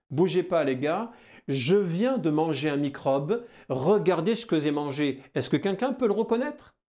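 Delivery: lightly voiced cheerful cell calling out; voicing the cell. Teacher voicing a cell that calls the defence cells. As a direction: call to the other cells like a buddy. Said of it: "Elle sert à présenter pour dire quoi".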